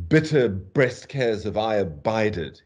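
slow, measured line of verse; verse recitation. Shown as a demonstration. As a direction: recite it deliberately, leaning on the alliterating words. Recites example of alliterative verse.

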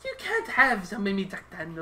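put-on Irish accent. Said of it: "why are you talking in Irish accent".

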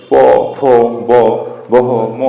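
প ফ ব বহ ম each said alone with lips pressed; labial letters demo. Shown as a demonstration. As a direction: separate beats for প, ফ, ব, বহ, ম. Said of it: "যেমন".

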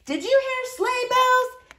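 put-on high, slow, wondering old voice; hushed wonder. A narrator's reading. Grandmother to the children, slow wonder. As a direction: ask it like a spell.

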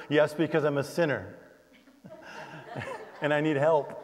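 laughing confession. Retold or imitated. Pastor laughs confessing to the officer. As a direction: giggle out the confession.

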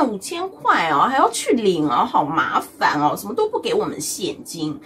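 mock grumbling about the voucher; whiny complaint. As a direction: moan like it's a big bother. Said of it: "你一定要先嫌弃再说".

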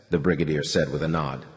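usual speaking voice

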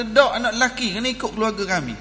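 imitating a relative in a tug-of-war; retold quarrel refusal. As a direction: argue back fast and insistently. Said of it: "Duk main balah".

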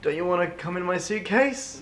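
coaxing offer. Pretend. Offering suitcase sweetly.

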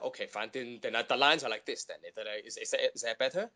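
put-on lightly done Hong Kong accent; understated Hong Kong English. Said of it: "Hong Kong accent if they want it".

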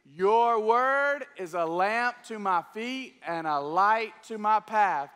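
slow, measured recitation of scripture; slow group recitation. Shown as a demonstration. Pastor leading the congregation in reciting the verse, slow. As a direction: recite it together slowly with the church. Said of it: "Let's try it".

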